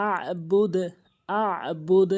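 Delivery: "আবুদ" with a squeezed throat catch after a; pressed ayn. Shown as a demonstration. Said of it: "এভাবে উচ্চারণ করতে হবে".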